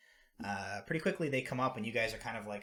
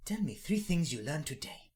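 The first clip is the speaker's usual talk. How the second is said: put-on higher, kindly old granny calling children; 7 semitones higher, 7 dB louder than usual. Granny coaxing shy children closer, higher and kindly. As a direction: coax the wary kids like a gentle grandmother.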